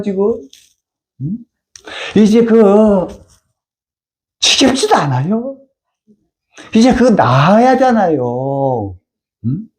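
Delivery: ordinary talk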